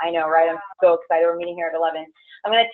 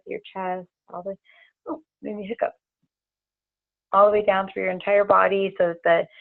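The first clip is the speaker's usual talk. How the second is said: steady, soothing meditation guide; guided grounding meditation. Acted. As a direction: lead them gently into the ground.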